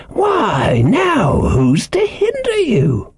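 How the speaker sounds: high-pitched, sly castaway; startled slyness. A narrator's reading. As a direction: pitch it high and draw out the question. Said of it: "a kind of startled slyness".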